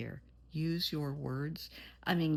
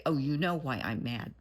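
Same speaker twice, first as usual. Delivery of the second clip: louder mock sulk, rising at the end; wrong way, sulky; 5 dB louder than usual. Shown as a demonstration. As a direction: show the childish way to avoid talking. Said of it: "And don't say".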